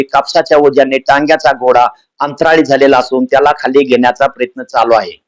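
a hint of a formal radio announcer; mock radio news. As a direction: read the joke bulletin like All India Radio news. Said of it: "विनोदी आकाशी समाचार आहेत".

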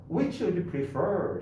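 Which would you prefer? said very slowly to be repeated; slow model before the class repeats; slow model line. Shown as a demonstration. Teacher to class, slow model for repeating. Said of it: "시작".

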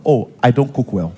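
low, sarcastic parroting; mocking echo. Partner parroting criticism of their cooking, mocking. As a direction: repeat the criticism back in mockery. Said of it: "they'll repeat after you".

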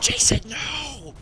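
long drawn-out cry of no; dramatic shout. Real, not acted. Teammate kills him in game.

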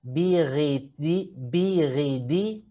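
slow biridi with French-like r; Arabic ghain with i. Shown as a demonstration. Teacher drilling ghain slowly. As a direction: roll biridi slowly in the throat. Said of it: "Acá tenemos risi".

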